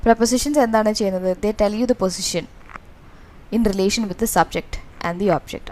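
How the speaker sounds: ordinary talk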